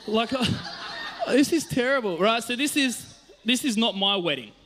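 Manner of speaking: high-pitched, laughing through the words; helplessly amused at himself. Real, not acted. Showing his crying photo to the audience, laughing.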